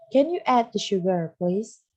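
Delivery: clear, careful model reading; read-aloud model sentence. Shown as a demonstration. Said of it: "Miss kali ini akan membacakan percakapan". (membaca kalimat contoh dengan jelas)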